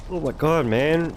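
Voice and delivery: talking through a yawn; words stretched by a yawn. Real, not acted. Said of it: "Sorry I keep yawning".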